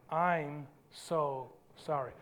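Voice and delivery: soft, low, slow apology; humble apology. Shown as a demonstration. Preacher leads congregation in saying sorry, soft and slow. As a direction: say it slowly and softly. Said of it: "Say with me".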